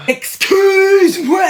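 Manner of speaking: very high, stretched-out attention call; slow, high, insistent hail; drawn-out interruption. Acted. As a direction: hold the middle vowel high and long.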